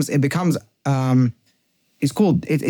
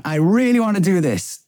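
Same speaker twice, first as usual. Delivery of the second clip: craving inner voice; 6 semitones higher than usual. Retold or imitated. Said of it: "Step one".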